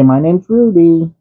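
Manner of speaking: high, slow prompt for the cat. Pretend. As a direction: spell out the name slowly for the cat. Dad voicing lines for cat.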